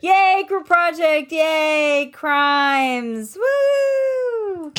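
high cheering yell; shrieking jackpot winner. Real, not acted. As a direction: cheer loudly for the team. Cheering election win.

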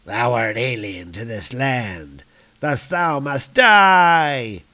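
theatrical sentence of death; threatening giant. Acted. Giant sentencing the intruding monster, slow theatrical threat.

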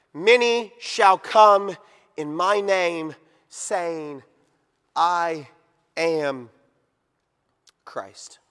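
spaced-out words, sinking to a hush; slow, weighty scripture reading. Real, not acted. Preacher reading Jesus' warning about impostors, slow and hushed at the end. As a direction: let long pauses separate the last words, dropping away. Reads verse for emphasis, word by word.

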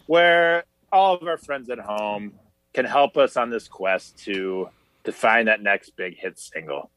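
game show host intro; lightly hammed-up show host. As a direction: welcome the audience like a TV host. Hosts a mock show intro.

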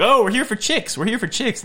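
high-pitched put-on eagerness; mocking a man's false enthusiasm; mock con man. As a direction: sell the pretence in a silly high voice.

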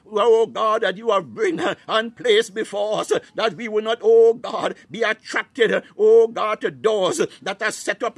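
fervent prayer. Real, not acted.

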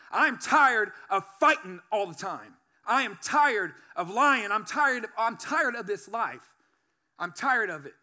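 emphatic, building list of grievances; retold weary protest at full voice; fed-up insistence. Acted fed-up plea to God.

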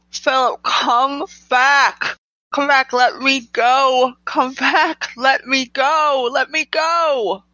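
high, desperate cry after someone leaving; screaming. Acted. Girl held back screams after Philip, frantic high screaming. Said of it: "and just screaming".

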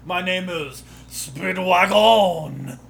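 slow, hammed-up German accent; slow mock German accent introducing himself. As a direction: announce it like a cartoon German villain. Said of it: "should have gone up to you guys and been like".

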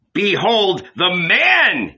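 slow, high, loud announcement; shouted proclamation. A narrator's reading. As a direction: present him loudly to the crowd. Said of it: "he shouted".

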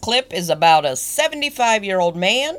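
thick, hammed-up Southern accent with swooping pitch; horrible Southern accent. Host announcing the last clip, thick bad Southern accent. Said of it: "it was a horrible Southern accent that you gave".

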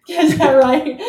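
laughing as she asks. Real, not acted. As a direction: laugh through the words. Laughs at the joke.

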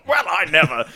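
lightly voiced stuffy gentleman; a hint of scandalized monocle-wearer; monocled gentleman. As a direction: play a shocked man with a monocle. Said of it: "a man with a monocle has just gone".

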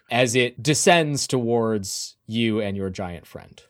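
measured, dramatic scene setting; storytelling game master voice; game master narration. Acted. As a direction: narrate the scene, lingering on key details.

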